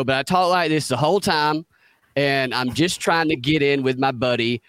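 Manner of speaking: lightly put-on Southern accent for a TV role; redneck accent. Shown as a demonstration. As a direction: demo a touch of redneck twang. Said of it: "I played a redneck".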